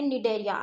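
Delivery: Cnidaria begun straight on the N, C unspoken; silent C. Shown as a demonstration. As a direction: drop the C in Cnidaria: "ni-DAIR-ia". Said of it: "सी इसमें silent है". (Cnidaria को "निडेरिया" बोलें, C silent)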